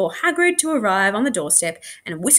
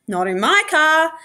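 mild yell; 8 semitones higher, 4 dB louder than usual. A narrator's reading. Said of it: "yelled Harriet".

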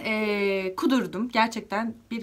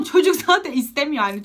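ordinary talk, nothing marked

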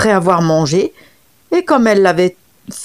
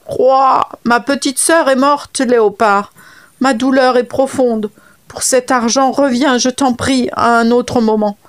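lightly voiced frog, a little higher, lamenting; 4 semitones higher than usual. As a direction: play the mourning frog begging for time. Frog mourns again. (voix de grenouille légèrement plaintive)

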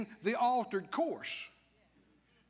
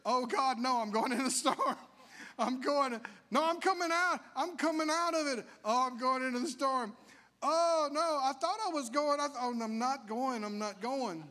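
wavering mock confession. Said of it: "But what if you say".

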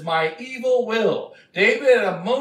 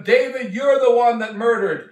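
the prophet thunders at King David; accusing prophet; 3 semitones higher, 4 dB louder than usual. Acted. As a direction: point at him and call him out.

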